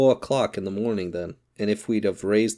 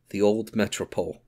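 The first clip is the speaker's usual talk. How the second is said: gloomy brooding. Acted. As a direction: brood over the memory, understated. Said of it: "brooded Mister Wolfsheim gloomily".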